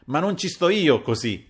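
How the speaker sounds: high, indignant comeback; high-pitched protesting retort; sharp retort. A narrator's reading. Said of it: "rimbeccò la Caporale".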